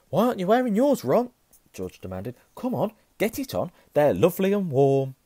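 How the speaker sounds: high, loud insistence; loud demand. Acted. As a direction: demand he put it on. George demands loudly.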